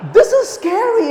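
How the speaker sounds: laughing as the words come out; half-laughing at the scary truth. Real, not acted. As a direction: get the words out through a laugh. Laughing after the punchline.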